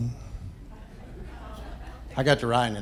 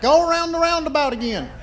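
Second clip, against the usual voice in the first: creepy weird voice; 12 semitones higher than usual. Retold or imitated. Comedian scaring off the plane woman in a high weird falsetto. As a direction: drag out a strange falsetto to unsettle her.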